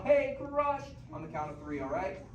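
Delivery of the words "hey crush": show the yell. Shown as a demonstration. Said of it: "we need to yell".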